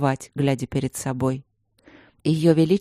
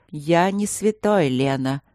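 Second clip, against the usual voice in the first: slow; slower than usual. Acted. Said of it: "медленно сказал Луциус".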